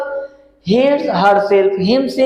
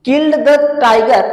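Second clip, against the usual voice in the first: slow repeat; 3 semitones higher, slower than usual. Shown as a demonstration. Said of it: "तो कह रहा है कि".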